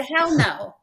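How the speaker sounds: loud, firm hell no; emphatic refusal. Retold or imitated. Jumper flatly refusing the instructor, loudly. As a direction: slam the door on it. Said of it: "And I said".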